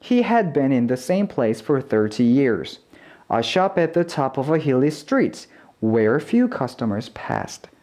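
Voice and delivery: SHOP AT and TOP OF A linked in smooth measured phrases; natural linked reading. Shown as a demonstration. Teacher's last model reading for learners, natural and linked through TOP OF A. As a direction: read naturally, linking TOP OF A and letting PASSED end lightly. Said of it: "자연스럽게 마지막 한번 읽어보면".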